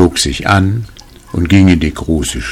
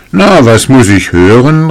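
loud, higher storybook outrage; indignant exclamation; 6 semitones higher, 7 dB louder than usual. A narrator's reading. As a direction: exclaim it as if affronted. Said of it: "rief der Schneider".

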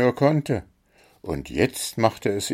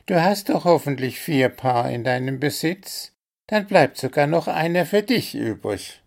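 owl voice; 7 semitones higher than usual. A narrator's reading. Owl Willi speaks for group.

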